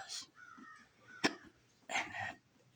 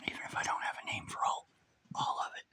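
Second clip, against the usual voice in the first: whispering through hiccups; words broken by hiccups; 6 dB louder than usual. Real, not acted. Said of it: "Sorry, I got the hiccups".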